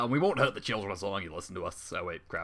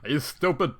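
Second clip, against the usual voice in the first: higher, loud, slow sneer; mocking villain; 7 semitones higher, 8 dB louder, slower than usual. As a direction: scoff at how dumb she is. Villain mocks Fluttershy.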